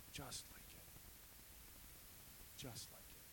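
breathy whispered aside; sly whispered echo. Acted. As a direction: hush it like a secret. Mocking the Pharisee's invitation.

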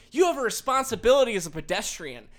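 mock scolding driver. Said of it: "She's like".

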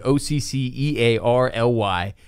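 O C C E A R L Y spelled letter by letter, slowly; slow spelling. Shown as a demonstration. Host spelling the discount code for listeners, slow and clear. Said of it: "one word".

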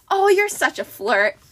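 high coy pretend bride; simpering falsetto. A narrator's reading. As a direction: flirt in a put-on high voice. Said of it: "in his falsetto voice".

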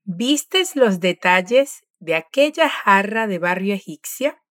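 slow, careful question, fading at the end; slow model question. Shown as a demonstration. Teacher repeating the question slowly. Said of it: "Ahora vamos a repetir la pregunta completa".

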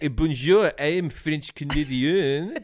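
slow, hammed-up French Canadian accent, stressing am; lightly put-on French Canadian lilt; mock French Canadian accent. Mocking French Canadians who doubt the slur, in French Canadian accent. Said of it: "they were like".

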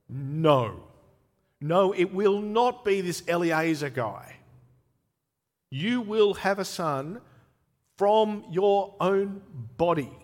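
God flatly overruling Abram's doubt; emphatic. Acted. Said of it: "equally emphatic".

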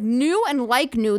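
slow, puzzled stress on "New" and "like new"; mock reading. Reading a confusing ad aloud, slow and puzzled. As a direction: drag out "New and like new" like a silly listing. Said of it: "And I was like".

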